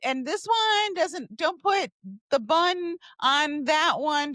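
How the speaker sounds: slightly hammed-up, high ordering voice; acted drive-through order.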